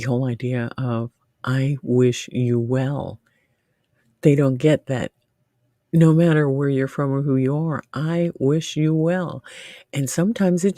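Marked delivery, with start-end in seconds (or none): 1.4-3.2 slow sincere wish. Shown as a demonstration. Quoting her kind message. 7.9-9.4 slow sincere wish. Shown as a demonstration. Quoting her kind message again.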